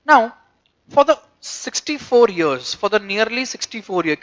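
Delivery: slow, measured textbook reading; deliberate phrase-by-phrase reading; reading aloud. Real, not acted. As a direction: read it out slowly to a class.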